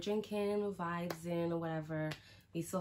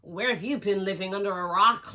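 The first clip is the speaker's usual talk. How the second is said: mock disbelief; 3 semitones higher, 10 dB louder than usual. The guys teasing her about blackjack, mock disbelief. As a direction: call it out, teasing. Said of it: "They're like".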